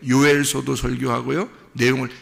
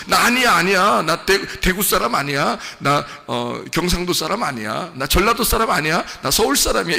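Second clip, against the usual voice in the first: lightly voiced fake Seoul accent, a touch higher; mock Seoul speech; 3 semitones higher than usual. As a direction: pretend to be a Seoulite to hide your roots. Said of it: "이렇게 말한 거랑 똑같은 거예요, 베드로가".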